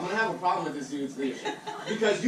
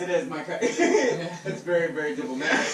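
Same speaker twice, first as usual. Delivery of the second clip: customer service voice. Pretend. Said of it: "your customer service voice".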